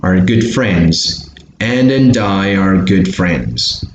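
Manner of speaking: "Ann and Di" joined, read slowly; linked model reading. Shown as a demonstration. Teacher modelling the sentence, slow connected pronunciation. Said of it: "connect that".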